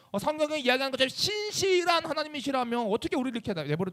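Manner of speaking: acted complaint, stretching the key reproaches; betrayed protest. Israel challenging God over His promise, hurt and reproachful. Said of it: "그 배신과 슬픔이 또 누구로 향할 줄".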